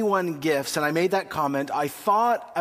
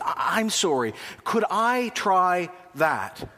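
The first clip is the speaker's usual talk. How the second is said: slow, overly apologetic Canadian ask; a hint of a sheepish Canadian asking for a sample; polite Canadian; slower than usual. Adult asking the ice cream server for a sample, mock apologetic. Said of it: "There's our phrase".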